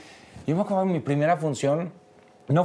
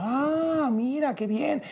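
put-on Spanish accent; 4 semitones higher, slower than usual. A theatregoer surprised he is Mexican, imitated Spanish accent. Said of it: "en su acento español".

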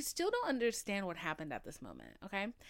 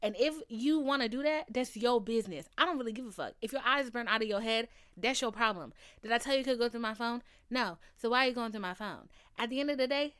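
louder, heated telling-off; fired-up rant; 2 semitones higher, 5 dB louder, faster than usual. Retold or imitated. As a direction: lay down the law, heated. Lecturing a snooping parent.

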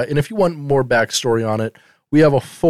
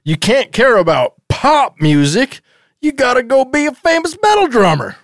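higher-pitched scolding father parody; mock angry dad; 9 semitones higher than usual. Father ordering Vinny to become a metal drummer, in a higher mock-angry voice. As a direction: lecture him like a fed-up sitcom dad.

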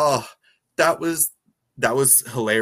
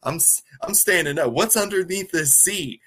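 retold suspicion, climbing higher and louder; suspicious; 6 semitones higher, 3 dB louder than usual. Co-host retells Tyler getting wise to the seat, mock suspicious. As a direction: imitate someone growing wary, pitch rising to the end. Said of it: "he was getting suspicious".

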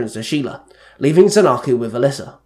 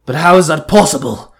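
louder, mildly puzzled question; puzzled, with emphasis; confused; 3 semitones higher, 7 dB louder than usual. A narrator's reading. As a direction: ask it in mild confusion.

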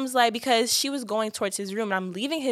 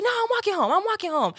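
dramatic refusal; 11 semitones higher than usual. Retold or imitated.

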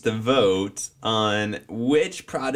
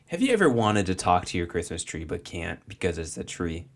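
infomercial host; 7 semitones lower, 4 dB quieter than usual. Acted. Infomercial pitch opening.

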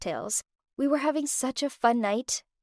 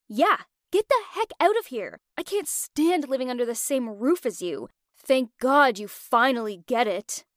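sarcastic. Acted. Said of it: "spoke in a sarcastic tone".

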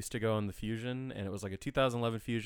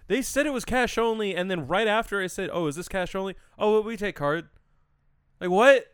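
higher, louder, outraged disbelief; indignant outburst; 9 semitones higher, 7 dB louder than usual. Real, not acted. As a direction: vent at friends about the valet. Indignant retelling of valet.

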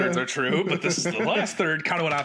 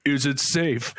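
mock intercom voice; 3 dB louder, slower than usual. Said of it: "over, like, an intercom".

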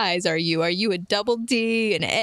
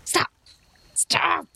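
pleading stop; 9 semitones higher than usual. Acted. Pleading to end fight.

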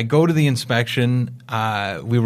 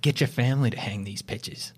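soft imitated South African accent; 7 dB quieter than usual. Agent delivering the misunderstanding's punchline, soft South African accent. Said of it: "I gotta do the accent for this part".

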